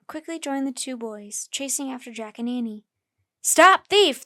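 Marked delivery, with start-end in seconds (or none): 3.4-4.2 high loud yell. A narrator's reading. Butcher yelling as Jack runs past. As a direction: shout from the shop door. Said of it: "the butcher yelled".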